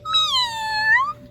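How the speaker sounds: very high, rising meows; the cat meowing at the duckling. Acted. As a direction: mew like a cat. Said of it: "said the cat".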